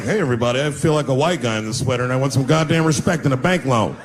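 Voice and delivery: lightly voiced white guy in a sweater; a hint of a polite white guy asking for respect; a touch of a white guy voice; mock white guy. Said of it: "I'm like".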